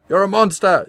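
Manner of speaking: high, loud furious scream. A narrator's reading. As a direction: scream it in rage. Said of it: "she screamed".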